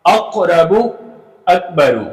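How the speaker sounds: the stop before र bounced in अकरबु; अकबरु said with a clear echoing release; qalqala demo. Shown as a demonstration. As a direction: recite अकरबु with a rebounding q. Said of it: "अब देखें यहाँ पे आवाज क्या बनेगी?".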